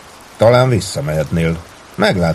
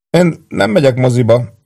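high, chipper announcement; bright-spirited and pitched well up; cheerful; 7 semitones higher, 4 dB louder than usual. A narrator's reading. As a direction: pipe up merrily. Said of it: "szólalt meg vidáman Péntek".

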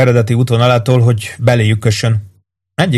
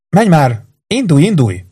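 urgent urging; 6 semitones higher than usual. Acted. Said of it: "biztatta Blacket".

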